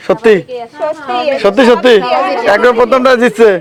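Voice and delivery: amazed, excited announcing a winner; can't believe she did it; surprised. Real, not acted. Host amazed someone won.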